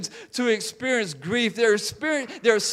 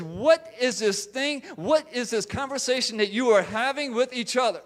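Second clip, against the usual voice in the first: higher, insistent reproof; reproving; 5 semitones higher than usual. Acted. Jesus challenging two disciples on their conversation, reproving. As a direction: press each question as a rebuke. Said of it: "he begins to reprove their conversation".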